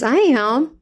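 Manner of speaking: friendly reply, lifted in pitch. Retold or imitated. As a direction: answer brightly and kindly, pitch going up. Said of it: "he's, like, so friendly".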